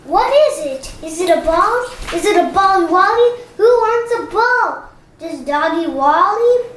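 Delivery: put-on sing-song baby talk to a pet; baby talk to dog. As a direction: coo at the dog like it's a baby.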